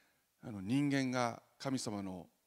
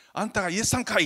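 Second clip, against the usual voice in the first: much higher and louder Osaka-dialect greeting; 8 semitones higher, 11 dB louder, faster than usual. Retold or imitated. Church play villagers greeting Jesus in Osaka dialect, loud. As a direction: call out in Kansai dialect like a friendly local. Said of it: "それも大阪弁で".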